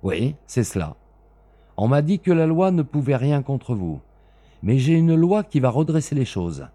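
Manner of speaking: loud, high, menacing avenger; grim threat. Acted. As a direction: swear the oath like a blow. Smith threatens Bellingham.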